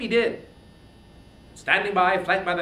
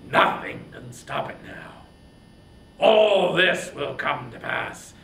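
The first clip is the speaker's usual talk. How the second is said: usual speaking voice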